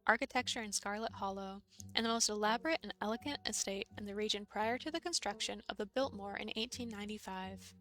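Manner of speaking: steady book-reading voice; reading aloud. Acted. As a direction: read it like a history text.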